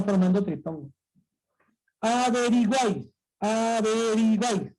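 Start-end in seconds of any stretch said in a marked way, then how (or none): 2.0-4.7 drawn out. Shown as a demonstration. Shows the triphthong, drawn out.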